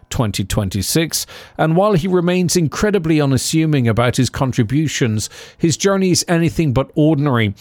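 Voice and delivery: measured, read-out introduction; polished scripted narration; scripted podcast intro. A narrator's reading. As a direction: introduce the guest like a documentary presenter.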